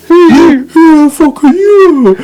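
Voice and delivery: high, slow mock aggressive "who the fuck are you"; mock aggressive challenge. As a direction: drag it out as a hammed-up confused tough guy. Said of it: "He goes".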